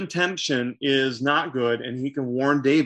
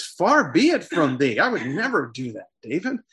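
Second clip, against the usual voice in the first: appalled; 3 semitones higher than usual. Acted. Jonathan answers David's plea to kill him, mildly appalled. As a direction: protest as if shocked at the very idea. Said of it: "Jonathan is really appalled by all this".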